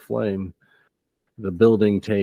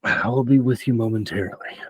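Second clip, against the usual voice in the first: pained bodyguard role; 3 semitones higher, faster than usual. Acted. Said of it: "he crushes it in his hands and goes".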